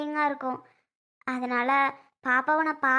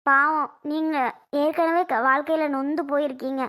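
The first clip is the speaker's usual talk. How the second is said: crying again; 4 dB louder than usual. Acted. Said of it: "இப்ப திருப்பியும் அலற".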